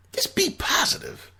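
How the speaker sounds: whispered plea to just be positive. Shown as a demonstration. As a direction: whisper it like a gentle reminder. Repeating his plea whispered.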